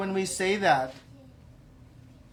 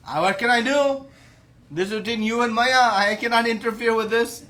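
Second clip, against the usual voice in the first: higher-pitched, excuse-making plea; helpless protest; 5 semitones higher, 4 dB louder than usual. Acted. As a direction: plead that it is out of your hands.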